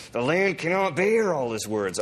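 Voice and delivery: lightly voiced courtroom Nicholson; bad Jack Nicholson impersonation. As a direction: priest on the witness stand, mild Nicholson voice. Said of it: "really bad Jack Nicholson impersonation".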